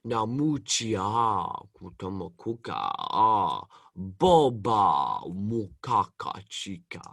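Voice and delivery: slow, low alien voice with a cold; Bib Fortuna impression. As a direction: drawl it out like a Star Wars alien. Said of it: "do your Bib Fortuna impression".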